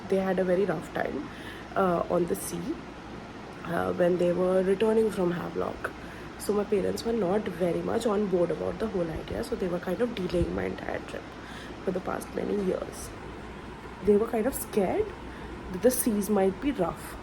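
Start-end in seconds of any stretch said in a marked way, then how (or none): 6.4-17.2 sleepy, groggy morning voice; just woke up, voice still groggy. Real, not acted. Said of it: "Sorry, my voice is very groggy".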